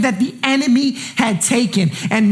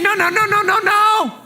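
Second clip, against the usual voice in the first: excited no no; 6 semitones higher than usual. Acted. Evangelist calling people back.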